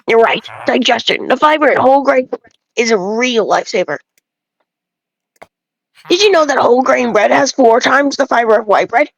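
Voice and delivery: a lightly voiced village know-it-all, preachy about grain; bread-obsessed villager. Lightly voiced villager lecturing the player about bread, smug. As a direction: play a self-important bread snob lecturing a traveler.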